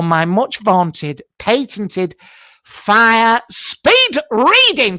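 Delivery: drawn-out, grand game-show billing; slow announcer build-up. Acted. Announcing his patented speed reading bit, slow and grand. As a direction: stretch every word like a big reveal.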